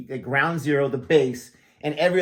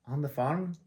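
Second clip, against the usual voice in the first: tentative, softer Scottish attempt; Scottish accent; 8 dB quieter than usual. Shown as a demonstration. Visitor unsure he can still do the Scots he heard, attempted Scottish accent. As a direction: try out a Scottish accent quietly. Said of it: "like, Scottish, I was around the Scots".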